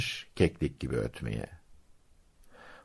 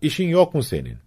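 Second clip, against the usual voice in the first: much higher, only slightly louder outburst; mild narrated yell; 10 semitones higher, 3 dB louder, faster than usual. A narrator's reading. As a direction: snap at the rabbit without really shouting. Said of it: "diye bağırmış". (hafifçe bağırır gibi, tiz sesle)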